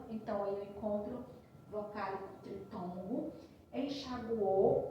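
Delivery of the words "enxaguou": slow, louder enunciation. Shown as a demonstration. Teacher spelling out an example word for students, slow and louder. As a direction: stretch Enxaguou out slowly and louder, vowel by vowel. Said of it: "teacher reads example word".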